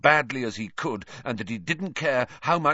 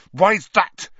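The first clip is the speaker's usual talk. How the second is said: higher, louder, spat out in contempt; 8 semitones higher, 8 dB louder than usual. A narrator's reading. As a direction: spit the words at him. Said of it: "Harry spat".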